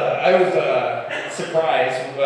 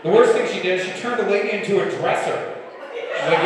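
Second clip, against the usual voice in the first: ordinary talk, nothing marked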